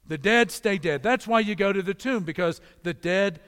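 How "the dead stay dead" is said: louder refrain. Acted.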